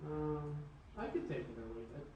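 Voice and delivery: distant from the mic; speaking off-mic; far from phone mic. Real, not acted. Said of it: "You sound like you're so from, far from the mic".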